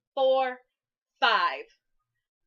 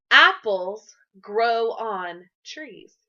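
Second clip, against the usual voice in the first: slow model reading; 4 semitones lower, 4 dB louder, much slower than usual. Shown as a demonstration. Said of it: "Can you say that with me?".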